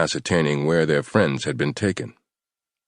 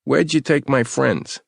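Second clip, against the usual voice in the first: menacing interrogator; 10 semitones higher, slower than usual. Acted. Yaya interrogates captive.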